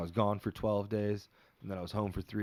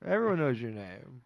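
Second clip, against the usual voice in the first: mock proud mom; 7 semitones higher than usual. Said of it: "Adrian's mom's just like".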